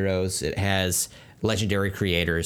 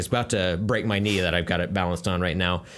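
straining under a heavy book; grunting with effort. Real, not acted. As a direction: talk while lifting something heavy. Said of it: "I'm generally or genuinely grunting picking this up".

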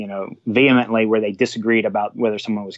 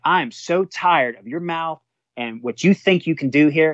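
retold fed-up rebuke; 5 semitones higher than usual. Captain tells George off.

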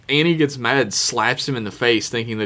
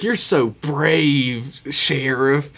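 saloon woman; slower than usual. Retold or imitated. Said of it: "saloon woman".

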